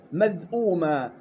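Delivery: مذءوما slowly with the hamza and long wāw; clear hamza. Shown as a demonstration. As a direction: drawl مذءوما, showing the hamza. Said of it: "لاحظ الهمزة المضمومة".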